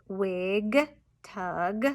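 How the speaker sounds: "wig" and "tug" apart, each g released; careful repeat of "wig", "tug" with clear g; emphasized ending sounds. Shown as a demonstration. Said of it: "emphasize those ending sounds".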